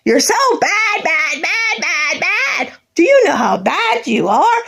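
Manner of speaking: sing-song scold, lightly imitated; mock scolding. Mimicking relatives scolding her as a child, lightly mocking. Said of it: "mocking family's scolding".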